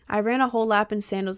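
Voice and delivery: breathless after running a lap; out of breath. Real, not acted. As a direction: puff out the words winded. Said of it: "I'm out of breath".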